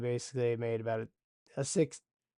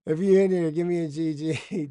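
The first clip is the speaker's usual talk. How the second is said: excited call-out; 4 semitones higher, 7 dB louder than usual. Real, not acted. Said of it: "That's the funniest thing".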